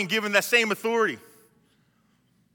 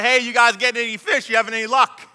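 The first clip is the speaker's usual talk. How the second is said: raised voice, a little higher, calling out; acted shout; 4 semitones higher, 5 dB louder than usual. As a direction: hail the fishing boat from shore. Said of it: "Jesus shouted out".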